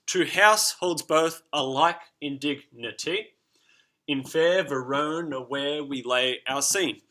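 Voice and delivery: "To house holds both alike in dignity" beat by beat; metered da-DUM reading; slow iambic recitation. Shown as a demonstration. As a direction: stress every second syllable, slowly. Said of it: "which makes ten beats".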